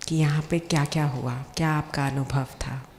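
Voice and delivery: calm guided visualization with long pauses; guided meditation. Acted. Speaker guides seated doctors on an imagined journey home, guided meditation. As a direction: lead them gently, phrase by phrase, leaving long pauses.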